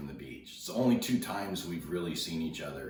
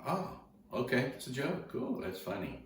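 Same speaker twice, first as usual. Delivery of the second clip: high, mock-cheerful sarcasm; sarcastic; 9 semitones higher than usual. He mocks the kid's joke excuse, high and sarcastic. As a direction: pretend to buy it, pitched way up.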